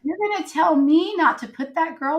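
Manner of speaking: high, amused mock-incredulous voice; laughing God. God laughing at the group leader's prayer, amused and high. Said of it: "I can just hear God's laughter".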